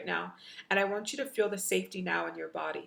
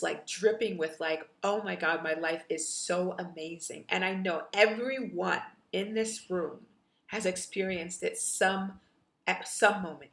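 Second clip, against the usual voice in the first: guided meditation. Acted. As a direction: guide them gently into the memory. Leads guided visualization.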